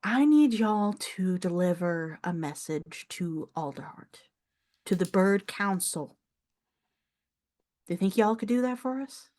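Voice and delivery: lightly voiced older Southern farm woman; a hint of a proud Southern elder; proud elderly countrywoman. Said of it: "like, elderly woman who has pride".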